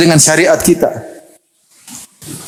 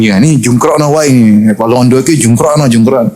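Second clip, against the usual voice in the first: muttered Javanese plotting; 2 semitones lower than usual. Retold or imitated. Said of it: "orang Jawa nginjuk-nyinggung".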